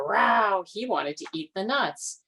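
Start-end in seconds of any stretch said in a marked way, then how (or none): 0.0-0.6 loud growled row; bear row. A narrator's reading. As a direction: grumble like a bear. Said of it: "said the bear".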